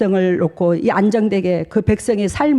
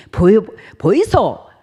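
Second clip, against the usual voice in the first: Gyeongsang dialect; much slower than usual. Retold or imitated. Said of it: "경상도 말로".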